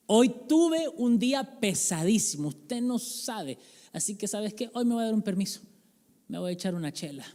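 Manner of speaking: mock exhausted sigh of a speech; weary worker's excuse. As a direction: drag it out like after a long shift, then treat yourself. Tired worker excusing a beer.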